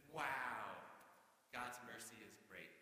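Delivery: a loud, awed burst on Wow, then settling; amazed wow. Pretend. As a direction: sound amazed at God's mercy. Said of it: "should be like".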